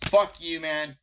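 angry curse. Real, not acted. Angry at mob.

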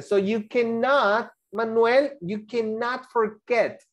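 slow, leaning hard on "cannot" and "forget"; teacher stressing "cannot", stretched out. Shown as a demonstration. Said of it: "What does it mean?". (profesora recalcando "cannot" despacio)

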